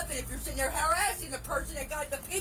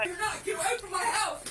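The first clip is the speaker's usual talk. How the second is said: crying shout; 3 semitones higher than usual. Real, not acted. Woman screams at police to leave her house, crying shout. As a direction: scream through tears for them to leave.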